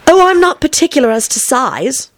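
high-voiced, eager Alice; hasty reply. A narrator's reading. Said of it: "Alice hastily replied".

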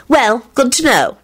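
cheery, high-pitched, stretched-out reply. A narrator's reading. Daughter responding to the two men, cheery. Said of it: "she responded cheerily".

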